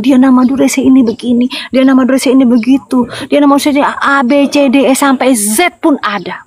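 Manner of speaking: imitating busy accusers; mimicked accusations. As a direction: rattle off the slanders like a list. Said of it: "sering mendapatkan fitnahan".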